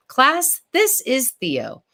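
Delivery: teacher. Acted. Teacher introduces new pupil.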